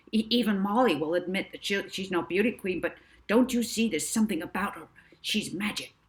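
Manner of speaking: Barry selling Molly, fast and eager; excited Barry. Acted. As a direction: rush it, thrilled by the girl. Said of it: "starting to sweat from excitement".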